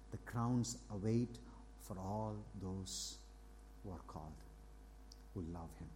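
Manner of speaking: soft, slow reverent reading; scripture reading. Acted. Pastor reading scripture to the congregation, soft slow reading. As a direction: read the verse softly, lingering on phrases.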